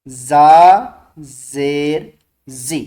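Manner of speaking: loud, very slow call for students to repeat; loud slow drill. Shown as a demonstration. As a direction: model it loudly so the class echoes. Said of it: "मेरे बाद आप बोलेंगे और ज़ोर से बोलेंगे".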